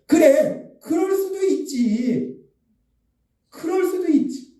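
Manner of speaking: slow, high, drawn-out understanding; accepting reassurance. Acted. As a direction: stretch it out, pitched high, forgivingly. Models accepting others' weakness. (높고 길게 너그러이 받아 주는 말투)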